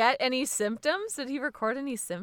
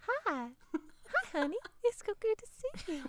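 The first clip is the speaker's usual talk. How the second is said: put-on much higher, sweet Southern grandma accent; 10 semitones higher, 6 dB quieter than usual. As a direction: greet like a doting Texan grandma in a Southern accent. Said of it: "reminded me of my grandma's accent".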